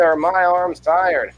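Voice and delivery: high, loud, slow punchline delivery; milk the punchline like an old-time comic; old borscht belt comic. Pretend. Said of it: "I'd come up and be like".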